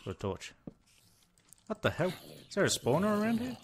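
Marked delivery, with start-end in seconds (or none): 1.7-3.6 high, fast disbelief; startled by too many enemies; alarmed. Real, not acted. Surrounded by mobs, high fast alarmed questions.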